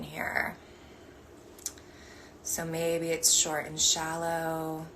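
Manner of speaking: slow guiding voice with long pauses; guided meditation. Acted. Meditation teacher guiding the group's breathing, slow and measured. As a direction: lead them gently through each breath.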